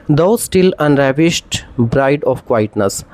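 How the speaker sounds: very slow, measured recital of the line; slow classroom recitation; slow poem reading. Shown as a demonstration. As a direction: read it out like a poem. Teacher recites Keats line.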